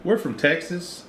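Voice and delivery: high, slow mock of the wife; imitating wife. Wife answering the stranger, high slow imitation. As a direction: drawl it out high like his wife.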